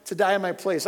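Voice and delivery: heartfelt outpouring, pushed high and strong; real, getting emotional. Real, not acted. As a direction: preach it loud and high, close to tears. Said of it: "I'm sorry, I'm getting emotional".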